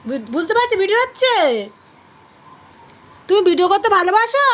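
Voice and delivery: put-on talking to a baby. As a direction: speak for the pet in baby talk. Answers for pet in baby voice.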